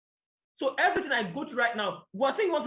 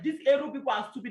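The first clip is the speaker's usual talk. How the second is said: retold angry outburst; 5 semitones higher, 3 dB louder than usual. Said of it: "I was like".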